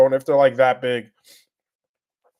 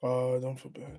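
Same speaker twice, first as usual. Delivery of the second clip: whisper; 10 dB quieter than usual. Real, not acted. Reading chat under breath.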